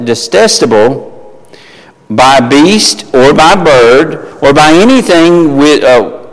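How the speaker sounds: slow, measured Bible reading to the congregation; scripture reading. Acted. Preacher reading Peter's vision to the congregation, measured and deliberate. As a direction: read the verses with weight. Reads Leviticus aloud.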